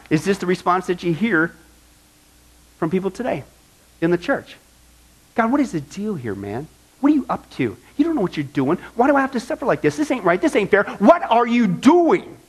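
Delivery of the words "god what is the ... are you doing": whining complaint. Retold or imitated. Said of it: "kinda have that attitude".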